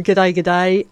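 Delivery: put-on a weak, half-hearted Australian accent; self-consciously bad Australian greeting. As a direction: have a go at an Aussie g'day and miss. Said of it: "Accent is getting no better".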